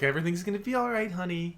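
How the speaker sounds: high, quick cooing imitation; mock loving reassurance. Spouse soothing a beloved in bed, mock loving reassurance. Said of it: "lovingly, like, petting him".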